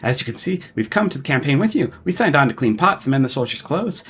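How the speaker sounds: lightly voiced flustered old dwarf, quick; stammering old dwarf. Old dwarf director eagerly greets the commander, flustered. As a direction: rattle on like an eager theater director.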